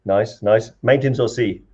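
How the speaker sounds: put-on light Welsh accent, lilting questions; lightly put-on Welsh accent. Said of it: "doing the Welsh accent".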